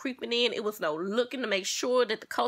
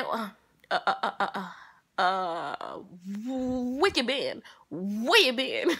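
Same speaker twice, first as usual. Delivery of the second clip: stuttering; slower than usual. Retold or imitated. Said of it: "she was saying this all while stuttering".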